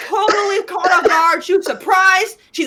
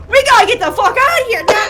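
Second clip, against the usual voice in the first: raised, laughing urgency; hammed-up cry to flee; acted urgent panic; 3 semitones higher, 4 dB louder than usual. Player imagines fleeing a dragon right afterwards, mock urgent. Acts out own urgent reaction.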